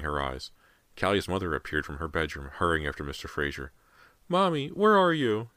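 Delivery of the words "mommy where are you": put-on high, drawn-out little boy calling; tiny child's cry. A narrator's reading. Lost boy calls for Mommy, tiny high cry. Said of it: "James's cry sounded tiny, far away".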